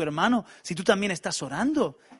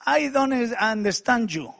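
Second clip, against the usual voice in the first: put-on broken Spanish-accented English; 4 semitones higher, slower than usual. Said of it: "yo hablándole en mi corto inglés".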